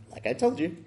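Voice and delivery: ordinary talk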